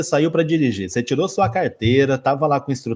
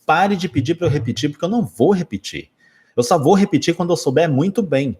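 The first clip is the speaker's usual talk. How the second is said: mild retold scolding; 5 semitones higher than usual. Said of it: "ela uma vez brigou comigo".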